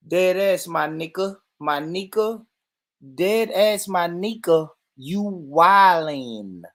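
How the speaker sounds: lightly put-on American slang accent; demonstrating an American accent. Shown as a demonstration. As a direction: try an American street-slang accent, drawing out the last word. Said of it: "has got the American accent down pat more than you".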